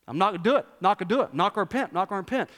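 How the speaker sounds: quick, stubborn refusals, mildly mocked; defiant refusal in short repeated bursts. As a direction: imitate a man digging in his heels. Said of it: "he was utterly defiant".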